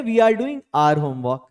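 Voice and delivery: very slow, each word laid out; slow model sentence. Shown as a demonstration. Teacher modelling the answer for his class, slow and clear. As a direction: model the sentence slowly for learners. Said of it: "हम लोग कर रहे हैं".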